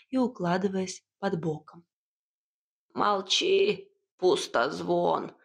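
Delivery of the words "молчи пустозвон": put-on slow old witch snapping at the cat; witch shushing. A narrator's reading. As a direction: hush the cat sharply. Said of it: "цыкнула на него Яга". (Яга цыкает на кота)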